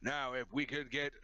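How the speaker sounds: lightly voiced cheesy TV host; game show host voice. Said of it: "do my game show host voice".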